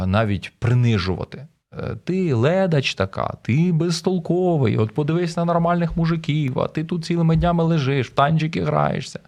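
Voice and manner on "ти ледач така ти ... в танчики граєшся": mock nagging wife, pitched up; scolding, belittling. Wife putting down her broken husband, scolding. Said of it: "починають звинувачувати, критикувати або".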